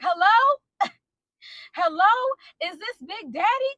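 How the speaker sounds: high, questioning phone hello; friend on the phone. Retold or imitated. Friend calling a stranger's husband on speaker, high-pitched questioning. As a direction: pitch it up like a tentative caller.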